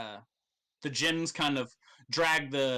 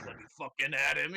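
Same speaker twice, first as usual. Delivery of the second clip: laughing mock rage. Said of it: "He's like".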